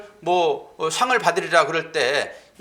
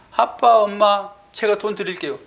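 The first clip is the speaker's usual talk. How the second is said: put-on grudging child. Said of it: "아까워 하면서".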